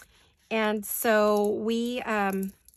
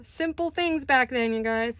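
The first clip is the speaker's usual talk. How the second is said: higher, louder, slow and drawn out with fond nostalgia; wistful emphasis; 5 semitones higher, 5 dB louder, slower than usual. Real, not acted. To viewers, fondly recalling Sunday Muppet nights, slow and wistful. Nostalgic after laughing at memory.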